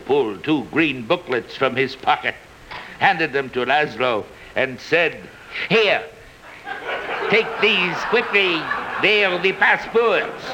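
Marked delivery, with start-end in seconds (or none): 5.7-10.4 higher, hurried officer; urgent Captain Renault. Acted. Renault urges Laszlo to take passports, higher and hurried. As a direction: press the passports on him quickly.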